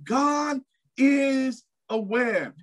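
high, slow ringing cry; full-force preaching peak; preaching shout. Real, not acted. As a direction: lift it up and hold it. Preacher climax.

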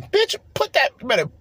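a shrieked mock reprimand; mock scolding. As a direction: snap at them like they insulted you. Scolding whoever serves baked chicken.

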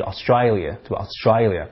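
Australia with the A said as "eye", "Austr-eye-lia"; Australia with an I sound; Cockney vowel. Shown as a demonstration. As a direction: say Australia the London way. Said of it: "把那个A都发成那个I".

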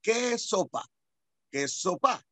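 imitating a foreigner's Panamanian slang; mock tentative foreign accent; foreigner's clumsy attempt. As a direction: say it like a foreigner still practicing. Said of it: "como que no le sale muy bien".

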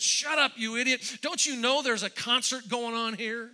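hammed-up retelling of a rude shout; retold snap. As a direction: flute player imitating the stagehand snapping at him. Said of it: "he snapped at me".

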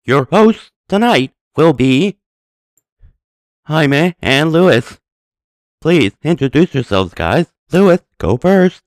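inhaled robotic announcer voice. Acted. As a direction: speak while breathing in, robot-like. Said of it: "so it sounds very robotic".

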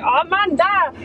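put-on high, squeaky girly voice. Shown as a demonstration. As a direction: pitch way up and squeak it. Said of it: "Das war eben die piepsige Stimme".

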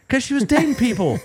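laughing, high and loud. Real, not acted. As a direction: laugh through the line.

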